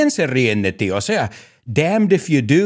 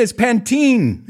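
laughing disbelief; 8 semitones higher, slower than usual. Real, not acted. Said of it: "¿Pantene se dice?".

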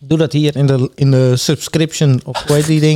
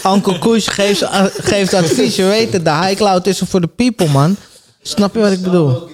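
higher, hyped guru voice; hyped advice guru; 4 semitones higher than usual. Pretend. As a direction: play the weed advice guru. Speaks as his own persona.

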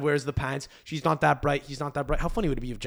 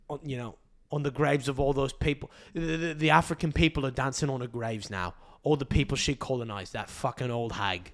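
put-on English accent slipping away; muddled attempted accent. Comic ranting on as Beckham, in a failing English accent. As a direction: do an English accent that is falling apart. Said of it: "I don't know what accent that was".

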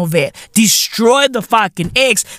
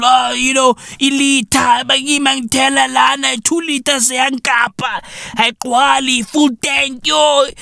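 higher, whiny moaning motorist; mock complaining driver; 5 semitones higher than usual. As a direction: moan about petrol like a fed-up driver.

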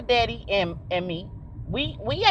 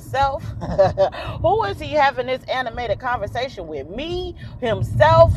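amused inner voice; 4 semitones higher than usual. Retold or imitated. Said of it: "I'm thinking to myself".

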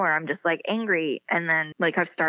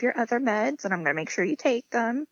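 mock-motherly checklist, pitched up; reassuring mom; 4 semitones higher than usual. Mom joking before daughter's wedding, mock-motherly reassurance. Mom's joke, acted.

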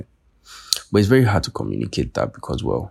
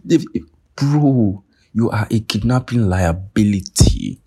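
higher, slow, dripping with mockery; scornful verdict; 4 semitones higher, 3 dB louder, slower than usual. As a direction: spell out the insult slowly. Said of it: "for not saying".

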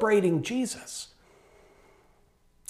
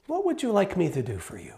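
loving; 5 dB quieter, faster than usual. Retold or imitated. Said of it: "he spends time with him and he loves on him".

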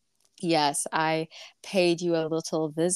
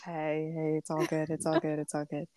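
gently calm an upset friend, easing off softer; quiet comforting repetition; soothing; 6 dB quieter than usual. Real, not acted. Friend soothes the upset dog owner.

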